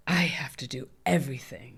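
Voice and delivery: breathy whisper, voiced on nothing; whispered thought. Whispering her own frantic flashback thought to herself. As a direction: whisper it like a thought you can't shake.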